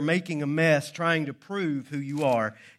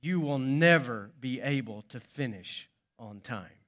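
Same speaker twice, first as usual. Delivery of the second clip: smug, lower-pitched professor; understated smugness, pitched down; 4 semitones lower, 3 dB quieter than usual. Acted. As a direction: gloat with quiet certainty. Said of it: "then smugly added".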